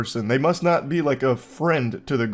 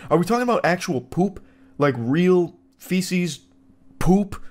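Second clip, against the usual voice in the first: incredulous; 5 semitones higher than usual. Real, not acted. Incredulous about the shit test.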